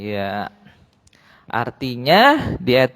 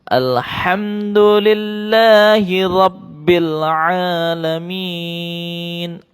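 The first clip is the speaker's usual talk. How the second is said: slow chanted tilawah; Quran recitation; slower than usual. Shown as a demonstration. Teacher chants the verse for pupils to repeat. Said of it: "Satu kali lagi ya".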